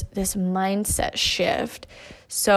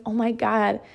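excited retelling; 3 semitones higher than usual. Retold or imitated. Wife telling her husband about her vision, excited and laughing. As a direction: spill the good news to him with a laugh.

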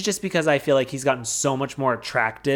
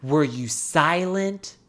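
slow, lightly voiced Oprah line; 4 semitones lower, slower than usual. Host slowly imitating Oprah's famous question. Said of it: "as Oprah says".

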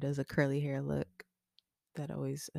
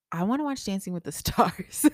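put-on toddler voice; 5 semitones higher, 9 dB louder than usual. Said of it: "she was like".

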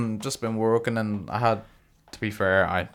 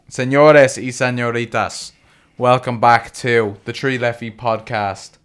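announcer; 4 dB louder, slower than usual. Pretend. Podcast intro, showman announcement.

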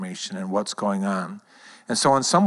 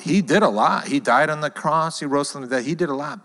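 insistent concession; 5 semitones higher, 3 dB louder than usual. Acted. Voicing those who half believe.

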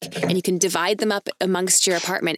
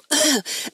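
little cough; 9 semitones higher than usual. Retold or imitated. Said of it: "like, a little cough".

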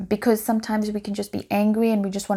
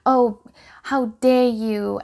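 louder, outraged, slowed on how dare you; mock indignant yell; 3 semitones higher, 5 dB louder, slower than usual. Shown as a demonstration. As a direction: play the parent who takes the bait. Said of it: "So instead of yelling".

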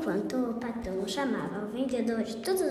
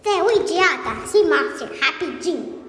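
louder, slower yell at the thief; angry shout; 2 semitones higher, 4 dB louder than usual. Acted. Patão yells for the thief who stole his shoes, louder slow shout. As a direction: call out the hidden thief angrily.

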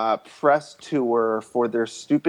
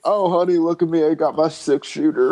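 higher, teasing cowboy come-on; hammed-up flirty cowboy; 5 semitones higher than usual. Playing Bill in a cowboy fantasy, hammed-up flirty voice.

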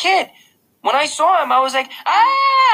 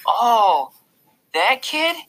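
put-on high-pitched little boy, suddenly recognizing; light up with startled recognition; high wide-eyed kid voice; wide-eyed little brother; 10 semitones higher, 3 dB louder, much slower than usual. A narrator's reading. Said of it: "his eyes opening wide".

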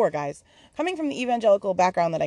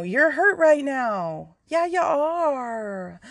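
tearful tender reassurance; 7 semitones higher, much slower than usual. Real, not acted. Spirit comforting her.

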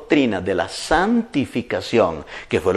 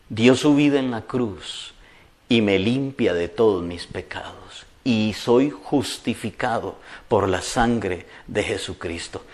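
humble confession; 2 semitones lower than usual. Retold or imitated. Answering the devil humbly.

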